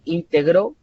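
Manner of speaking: "integró" stressed on final GRÓ; in-te-GRÓ, past tense; stress on last syllable. Shown as a demonstration. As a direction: land on the end of "integró". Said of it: "el pasado de integrar".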